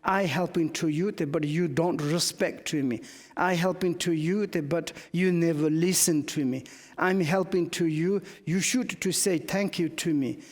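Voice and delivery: mild mock of a proud helper demanding thanks; a touch of haughty grievance, lightly voiced; understated indignant helper, mocked; arrogant, proud. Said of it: "arrogantly, proudly".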